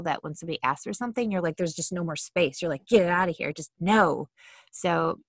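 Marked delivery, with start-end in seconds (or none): 2.9-4.3 louder, mock fed-up dismissal; irritable refusal. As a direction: wave them off, out of patience.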